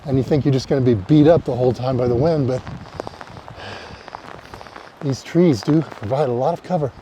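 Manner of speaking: breathing heavily while hiking; out of breath on the trail; shallow breathing. Real, not acted. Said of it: "Sorry for my heavy breathing".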